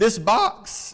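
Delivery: cracked voice, breaking mid-phrase. Speaker explaining a passage, voice cracking. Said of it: "voice cracked there".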